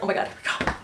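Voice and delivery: high, thrilled gasp rising into a squeal; hushed gasp, then a high excited burst; excited fangirl squeal. Retold or imitated. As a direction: act out the giddy moment he names the song. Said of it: "And I was like".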